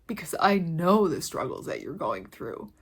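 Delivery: real emotion, voice nearly a whisper; emotional, barely holding it together; choked up. Real, not acted. Telling viewers she feels their struggle, choked near-whisper. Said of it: "I get, like, emotional when I talk about this".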